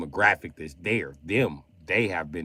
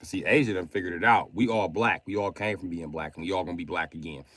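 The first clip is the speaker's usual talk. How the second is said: higher, louder mock Chinese accent throughout; 3 semitones higher, 5 dB louder than usual. Reading his friend Lee's texts aloud in a mock Chinese accent. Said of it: "why am I reading everything Lee said in Chinese accent".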